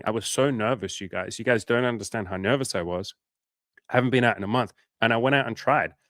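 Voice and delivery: cheerful self-congratulating retelling; proud and upbeat. Shown as a demonstration. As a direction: sell it like a personal victory. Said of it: "you can turn that around and say".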